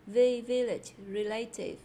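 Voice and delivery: "village", "relative" punched on the first syllable; first-syllable stress. Shown as a demonstration. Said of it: "Đều là nhấn âm đầu". (nhấn âm đầu ở "village", "relative")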